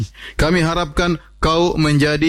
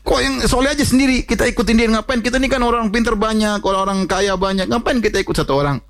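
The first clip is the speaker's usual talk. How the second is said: much higher, scornful mock voice; 9 semitones higher than usual. The people scorning Saleh's few followers, high mocking voice. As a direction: sneer at following one lone man. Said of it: "Kata mereka".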